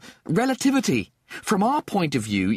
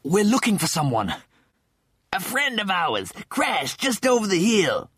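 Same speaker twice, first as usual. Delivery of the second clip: high, winded appeal; panting; 10 semitones higher than usual. Acted. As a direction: explain while catching your breath. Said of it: "Rimmer panted".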